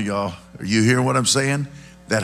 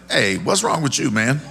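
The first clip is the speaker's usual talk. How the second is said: mock challenge; 4 semitones higher than usual. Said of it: "I'd be like".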